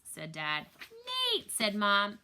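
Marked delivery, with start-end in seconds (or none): 1.3-1.5 sharp reproving exclamation; mock-shocked reprimand; scolding name call. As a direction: call him out, scandalised. Mom scolds joking dad Nate.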